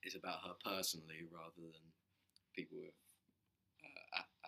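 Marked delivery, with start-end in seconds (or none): 3.8-4.5 stumbling on "a-, a-", breaking off each try; false starts on the first sound of a hard word; quiet, halting attempts at "a-"; struggling to pronounce. Real, not acted. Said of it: "I can't pronounce it".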